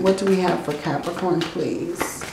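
soft hoarse whisper, quickly; losing voice. Real, not acted. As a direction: rasp it out softly, voice failing. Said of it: "I'm losing my voice".

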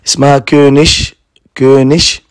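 كونش with the final ig said as sh, as in konsh. Shown as a demonstration. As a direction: end كونش on a clear sh sound. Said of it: "هي اللي بتتنطق شين".

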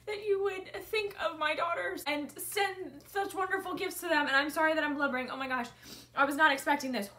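a touch of real tears of gratitude; emotional. Real, not acted. Mother thanks the friend who sent the gifts, tearful. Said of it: "I'm getting emotional".

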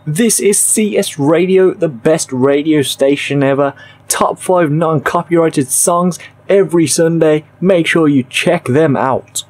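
radio DJ intro; upbeat station promo read; radio announcer. Shown as a demonstration. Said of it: "that right there is the default clip".

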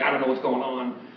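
imitating frantic disciples; half-screamed mock panic; mock panicked yelling. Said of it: "they're running around and they're screaming".

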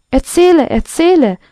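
storyteller voicing an eager crowd; eager calling out. A narrator's reading. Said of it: "riefen alle Möbel".

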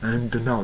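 "and now" with a released d; clear d and n. Shown as a demonstration. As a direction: separate d from n in "and now". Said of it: "はっきり発音してるとき".

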